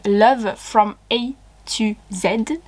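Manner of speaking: English title in an unbothered French accent; slow English title, French accent left in; strong French accent. Real, not acted. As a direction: make no effort to hide the French accent. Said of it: "avec mon magnifique accent, je, je fais aucun effort".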